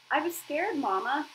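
high, pleading little voice; a frightened child confessing; scared crying. Acted. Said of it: "cried the goose".

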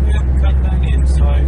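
shout. Real, not acted. Yelling at another driver.

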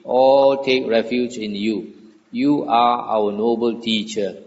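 measured, formal sutta reading; scripture reading. A narrator's reading. Devas praising the Buddha, formal scripture reading. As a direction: read the verses out clearly, phrase by phrase.

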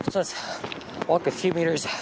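winded from the climb uphill; puffing between words; out of breath. Real, not acted. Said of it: "I'm out of breath".

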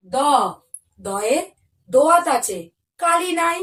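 put-on sing-song rhyme read to young children; alphabet rhyme recitation. Teacher reciting the Bengali alphabet rhyme to pupils, sing-song. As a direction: chant each letter's verse for the class.

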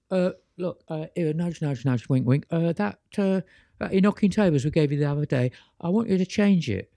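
a hammed-up English Monty Python accent, a touch fast. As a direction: play the angel as a cheeky Monty Python Englishman, nudge-nudge style. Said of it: "I love to put on this English Monty Python accent".

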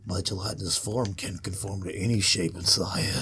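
a lightly voiced slimy blob boss; barfy boss voice. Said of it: "he speaks like barf".

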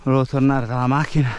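breathless, panting between words; out of breath. Real, not acted. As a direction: talk while catching your breath. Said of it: "Scusate il fiatone".

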